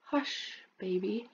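soft hushed whisper; big brother soothing the baby. Acted. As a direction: hush the baby gently. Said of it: "you'll whisper".

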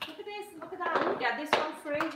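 high, eager saleswoman pitch; Avon lady sales patter. Acted. Joking about telling viewers what to buy, high Avon lady patter. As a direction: push the bargains like a door-to-door seller. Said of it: "I remind you of the Avon ladies".

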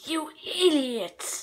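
evil sneer. Acted. Flowey turns evil.

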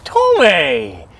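high, loud repeated call; loud protesting yell; exasperated shout. Acted. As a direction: cry out the name to cut in. Interrupting accuser in quarrel.

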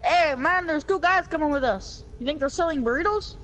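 light put-on Mexican-American accent; mock Mexican accent. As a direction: ask it in a playful Mexican accent. Mexican character again.

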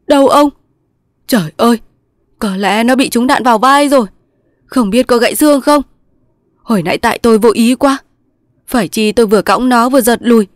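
high, distraught lament; tearful. A narrator's reading. Thành blames himself for his friend's wounds, tearful. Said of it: "Thành mếu máo".

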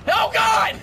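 loud high panicked cry; panicked yell. Real, not acted. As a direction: yell it in sudden alarm.

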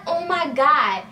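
high, loud shocked "oh my God"; retold panic at the crash; shocked gasp. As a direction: blurt it out as the car hits. Reacting to the crash.

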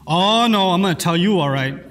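drawn "oh, no" dropping low into a threat; mild mock-angry threat; angry warning. Shown as a demonstration. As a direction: warn them with menace, pitch falling away. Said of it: "when you're angry or upset".

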